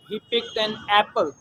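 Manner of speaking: slow, careful example sentence; deliberate teacher reading. Shown as a demonstration. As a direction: read the example word by word. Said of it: "example sentence read slowly".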